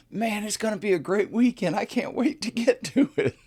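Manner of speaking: very high, excited jovial imitation; over-the-top chipper enthusiasm; jovial coworker. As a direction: gush in a high, cheery put-on voice. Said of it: "here comes Mister Jovial".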